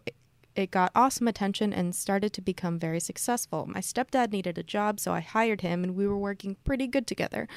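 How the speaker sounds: reading a listener's question on air; letter read aloud. Acted. Podcast host reading a fan's letter, lightly performed.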